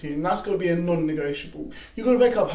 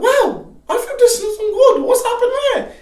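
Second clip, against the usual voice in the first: higher and louder, laughing bewilderment; mock surprise; 8 dB louder than usual. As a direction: play a baffled believer. Imagined puzzled believer.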